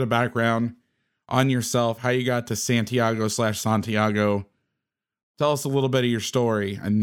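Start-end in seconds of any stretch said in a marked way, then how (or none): 2.6-4.4 "Santiago" first with flat "San", then with broad "Sahn"; both pronunciations. Shown as a demonstration. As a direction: give "Santiago" both ways, split by "slash". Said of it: "is it Santiago or Santiago".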